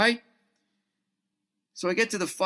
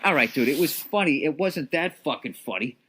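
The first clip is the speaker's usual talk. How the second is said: weary comic sarcasm; 4 dB louder than usual. Retold or imitated. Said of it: "the road-weary comedian in me going like".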